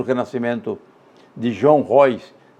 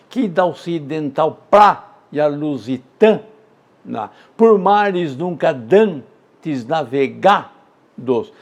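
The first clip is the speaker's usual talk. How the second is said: epic recitation. Acted. Teacher reciting Os Lusíadas to the class, grandly. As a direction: read it like a grand voyage. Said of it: "Os Lusíadas de Camões".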